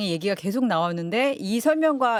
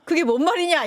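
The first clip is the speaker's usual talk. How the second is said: lightly acted baffled listener, higher pitch; 7 semitones higher than usual. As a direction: voice a puzzled viewer's mild protest, pitched up. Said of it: "이런, 이런 분들 굉장히 많으실 것 같은데".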